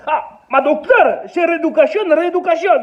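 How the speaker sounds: put-on caricatured Portuguese accent. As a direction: play the broken French of a Portuguese worker. Portuguese patient answers the doctor.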